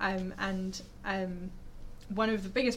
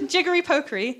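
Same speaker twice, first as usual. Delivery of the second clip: "jiggery pokery" in a lilting Welsh accent, pitch raised; 7 semitones higher, 11 dB louder than usual. Shown as a demonstration. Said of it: "that was a Welsh accent".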